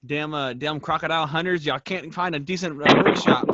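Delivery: put-on a broad Australian accent, jokey. To the actor friend, teasing in a mock Australian accent. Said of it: "That's pretty good Australian accent".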